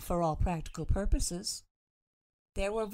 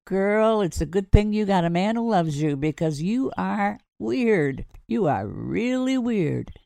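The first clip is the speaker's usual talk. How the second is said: laughing teasing; 3 semitones higher, 8 dB louder than usual. Acted. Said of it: "He began to laugh".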